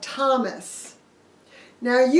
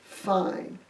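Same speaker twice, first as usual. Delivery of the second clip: resigned murmur; 4 semitones lower, 8 dB quieter than usual. Acted. Disciples give up.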